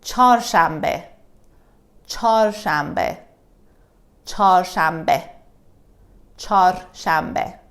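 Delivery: CHAR shambe, first word one syllable without h; reduced spoken form. Shown as a demonstration. Teacher drilling learners on everyday Wednesday, char shambe in spoken pronunciation. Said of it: "We say char".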